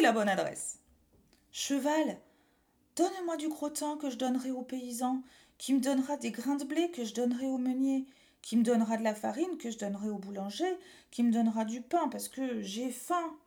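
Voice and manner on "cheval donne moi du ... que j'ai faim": put-on small boy voice. Boy pleads with horse.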